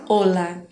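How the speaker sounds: "hola" as OH-la, falling on the second syllable; stress on first syllable. Shown as a demonstration. Teacher repeats the correct form, "hola" stressed on the O. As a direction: lean on the O of "hola", keep "la" light. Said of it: "a sílaba mais forte é o O".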